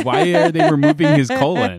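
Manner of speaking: high-pitched mock incredulity; comically confused squawk at what was heard; baffled outburst. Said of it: "I was like".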